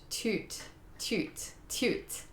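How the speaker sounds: unvoiced whispered toot; whispered repetition. Real, not acted. Testing the name under her breath, whispered. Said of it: "Wait, toot".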